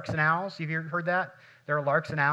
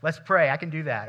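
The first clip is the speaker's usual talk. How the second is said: louder, raring-to-go mock cheer; eager night owl; 5 dB louder than usual. Pastor acts his wide-awake late-night self, eager. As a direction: pump it up like it's eleven at night. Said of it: "I'm ready to go".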